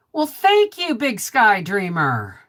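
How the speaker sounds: a delighted high call of thanks; bright excited thanks. Real, not acted. Thanks another viewer.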